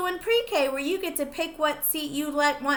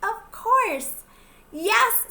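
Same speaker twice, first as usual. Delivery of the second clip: cheerful yes; 9 semitones higher, 5 dB louder, much slower than usual. Acted. Teacher character answers happily.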